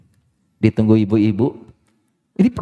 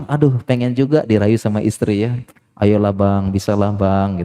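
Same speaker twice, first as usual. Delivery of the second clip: husband's plea; 3 semitones lower than usual. Retold or imitated. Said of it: "Suaminya bilang".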